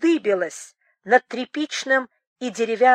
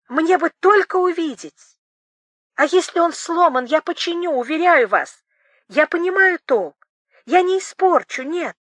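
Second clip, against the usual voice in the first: higher, pressing excitement; eager pleading; 6 semitones higher, 3 dB louder than usual. Acted. Boris Mikhailovich begs Temlyakova to let him repair it, excited pleading. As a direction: plead in a rush of enthusiasm.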